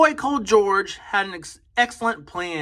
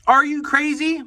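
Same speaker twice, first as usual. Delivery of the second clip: offended; 6 semitones higher, 3 dB louder than usual. Acted. Monster offended by mistake.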